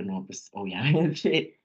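slow, laughing through the words; laughing agreement. Retold or imitated. Replying to parents who promised support, laughing. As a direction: laugh it off warmly, slowly.

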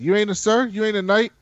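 high, incredulous disbelief; amazed question. Retold or imitated. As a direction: ask as if you can't believe it. Tormund amazed she is no knight.

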